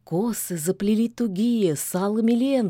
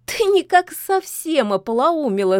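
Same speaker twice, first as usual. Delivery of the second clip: laughing; 7 semitones higher, 4 dB louder than usual. A narrator's reading. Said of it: "засмеялась Кикимора".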